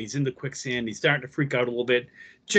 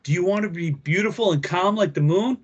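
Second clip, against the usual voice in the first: ordinary delivery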